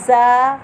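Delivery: "जा" firm and hard, loud. Shown as a demonstration. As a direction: press "जा" hard. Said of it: "जा में सख्ती है।". ("जा" सख्ती से)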